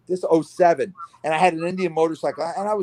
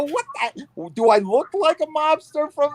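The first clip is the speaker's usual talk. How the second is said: high, incredulous what-the; a hammed-up, high-pitched retold protest; mock outrage; 12 semitones higher, slower than usual. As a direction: throw the question back, affronted. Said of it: "I go".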